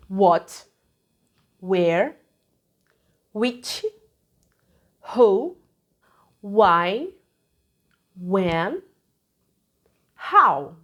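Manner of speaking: each question word said alone, slowly with pauses; teaching model words. Shown as a demonstration. Teacher modelling words for students, slow and clear. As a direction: list What, where, which, who, why, when, how clearly one by one. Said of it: "question words que você precisa saber".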